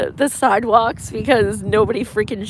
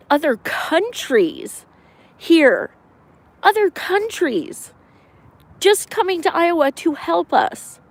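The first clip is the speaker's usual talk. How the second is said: excited; 5 semitones higher than usual. Real, not acted. Gushing about foreign volunteers.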